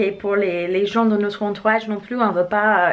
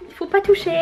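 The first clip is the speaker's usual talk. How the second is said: stern warning; 10 semitones higher, faster than usual. Real, not acted. Telling her son off.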